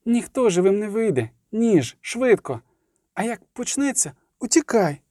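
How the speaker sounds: put-on high, lightly frightened girl; trembling voice. A narrator's reading. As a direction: warn urgently with a touch of trembling. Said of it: "повторила вона тремтливим голосом слова Кейлі". (високо, з легким тремтінням у голосі)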